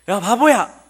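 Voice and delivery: a kid taunting a friend in a hammed-up yell; mock insult. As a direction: jeer at a friend. Insult acted again.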